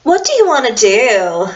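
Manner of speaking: put-on slow "totally" in an American valley-girl voice; hint of a Californian valley-girl accent. Shown as a demonstration. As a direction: drop into a lazy valley-girl drawl, fading out. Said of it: "You would have to go".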